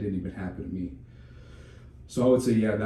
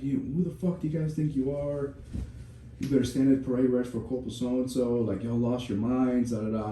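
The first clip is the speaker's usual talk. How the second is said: mild mock yell, pitched up at the start; half-hearted drill-sergeant telling-off, easing off at the end; retold yelling; 4 semitones higher than usual. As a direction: imitate chewing out a group of soldiers. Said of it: "I start yelling".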